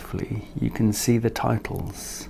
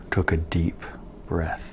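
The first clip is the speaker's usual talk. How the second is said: soft whispered build-up; hushed whisper; 5 semitones lower, 6 dB quieter than usual. A narrator's reading. Narrator whispers as Leonard gathers courage. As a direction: whisper before the big moment.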